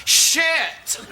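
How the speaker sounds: high, laughing outburst; mock deathbed curse. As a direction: blurt the curse like a dying man, mocking. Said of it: "something more like".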